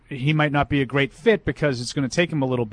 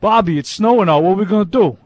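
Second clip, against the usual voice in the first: a louder, hammed-up helpless fan; mock pleading fan; 2 semitones higher, 5 dB louder than usual. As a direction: whine to the manager like a lost fan.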